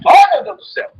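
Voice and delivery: grito agudo de susto, bem alto; susto fingido. Retold or imitated. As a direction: finja levar um susto ao ver a amiga. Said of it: "você primeiro toma um susto". (susto exagerado, voz aguda e alta)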